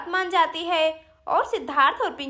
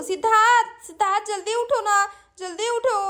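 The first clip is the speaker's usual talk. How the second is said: calling out; 5 semitones higher than usual. Acted. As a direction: call a sleeper's name to rouse him. Calling out to wake him. (ज़ोर से पुकारकर जगाना)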